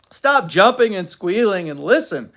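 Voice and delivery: lightly voiced stern dad; stern father. A narrator's reading. Father telling squealing daughter to listen, stern.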